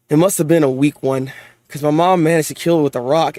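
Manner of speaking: low, even storybook reading; story narration. A narrator's reading. Reading a manga memory aloud, low narration. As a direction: read it low and measured, like a recollection.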